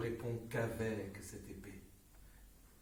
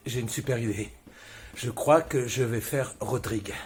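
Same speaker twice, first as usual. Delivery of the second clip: louder, pushing an idea; loud eager announcement; 9 dB louder than usual. Real, not acted. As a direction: sell the idea with gusto. Actor announcing idea loudly.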